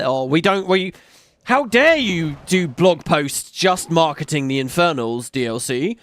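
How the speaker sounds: mocking a whiny fan, rising to indignant; whiny complaint. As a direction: whine like an entitled fan. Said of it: "throw the hissiest of fits".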